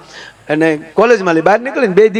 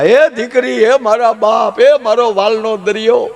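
higher, slow, drawn-out mock lament; mock wailing; 6 semitones higher, slower than usual. Grandmother mock-wailing as the daughter leaves, drawn-out lament. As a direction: wail like a grandmother at a farewell, hammed up. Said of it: "ગઢા માએ મીડ્યા રડવા".

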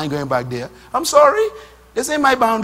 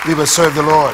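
louder, declared with conviction; emphatic vow; 4 semitones lower, 5 dB louder than usual. Shown as a demonstration. Preacher repeating the vow to his congregation, louder. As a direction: say it like a solemn promise. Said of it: "Anybody can make their decisions today?".

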